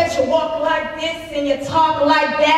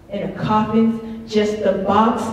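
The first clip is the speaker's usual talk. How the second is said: lower echo; 6 semitones lower than usual. Acted. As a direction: let the line sink as an echo. Echo of repeated poem line.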